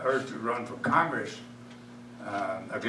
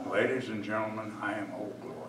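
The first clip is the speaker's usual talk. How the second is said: solemn recitation. Acted. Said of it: "this is what it would say".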